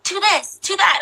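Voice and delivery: high mock imitation of the fussy directors; lightly mimicking French directors. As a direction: parody their fussy notes in a high voice. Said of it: "They're like".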